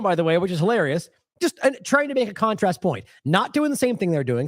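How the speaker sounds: usual speaking voice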